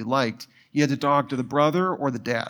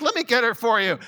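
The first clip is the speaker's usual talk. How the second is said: put-on deflated teen voice; 7 semitones higher, faster than usual. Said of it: "masculinity just drained out".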